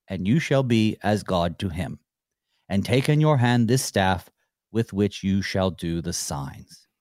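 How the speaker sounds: measured Bible reading; scripture reading. Acted. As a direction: read the passage steadily to listeners. Reads Exodus passage aloud.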